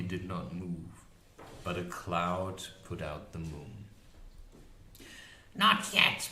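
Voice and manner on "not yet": high, loud warning crone; witch voice. A narrator's reading. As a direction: hold the monster back.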